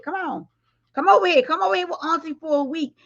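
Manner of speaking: high, coaxing auntie call; auntie calling a kid. Pretend. Auntie calling the badass kid over in a high voice. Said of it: "how we tell the bad kids".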